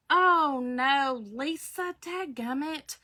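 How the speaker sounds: high, drawn-out lament; sympathetic dismay. Real, not acted. Host reacting to a viewer's bad news, dismayed. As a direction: start loud and high, then soften in commiseration.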